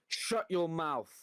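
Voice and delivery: put-on slow toddler telling dad off; little son's bossy line, lightly put on; imitating his son. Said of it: "and he'll go".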